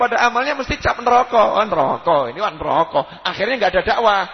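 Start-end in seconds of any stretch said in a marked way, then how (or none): 1.5-3.2 laughing scorn. Retold or imitated. Mocking a judgmental person.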